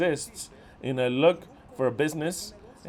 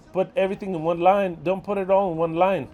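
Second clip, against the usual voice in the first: louder, exasperated order; loud scolding; 3 semitones higher, 5 dB louder than usual. Real, not acted. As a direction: hammer the rule home. Scolding about one-line addresses.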